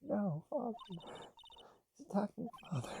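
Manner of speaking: high, frightened cry; terrified child. Acted. Young boy crying out as his father is attacked.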